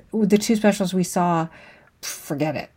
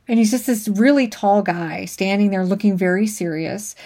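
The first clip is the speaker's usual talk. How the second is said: ordinary delivery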